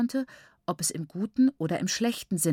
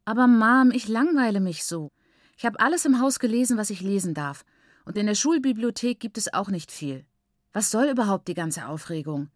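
whiny complaint; 3 semitones higher, 4 dB louder than usual. Acted. Daughter complains to mother.

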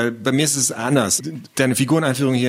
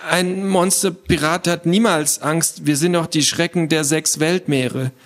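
put-on high, mildly trembling boy's boast; trembling bravado; 6 semitones higher than usual. Scared boy insists pirates are never afraid, trembling voice. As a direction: act brave with a touch of fear. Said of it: "mit zittriger Stimme".

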